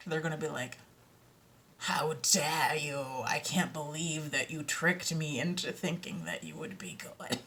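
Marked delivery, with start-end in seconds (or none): 1.8-7.4 mock outrage. Acting out outraged imagined listeners.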